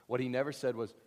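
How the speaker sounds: usual speaking voice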